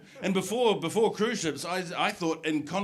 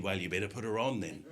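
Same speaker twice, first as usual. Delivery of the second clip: Santa voice; 8 semitones lower, 5 dB quieter than usual. Retold or imitated. Santa voice on the phone.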